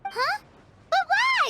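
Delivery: high, loud startled protest; shocked, loud outburst; surprised protest. Acted. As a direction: blurt it out in disbelief. Paimon protests being sent away.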